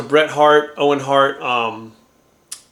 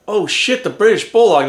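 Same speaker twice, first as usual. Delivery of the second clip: starstruck surprise; 6 semitones higher, 4 dB louder than usual. Retold or imitated. Starstruck seeing his hero.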